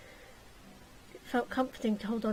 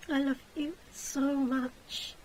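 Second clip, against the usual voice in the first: contented sigh; 3 semitones higher, slower than usual. Acted. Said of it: "she sighed with content".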